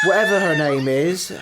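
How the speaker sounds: giggling while fumbling the name; half-laughing, stumbling over the name; laughing through it. Real, not acted. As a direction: laugh through the words as the name keeps going wrong. Mangling Madame de Pompadour's name.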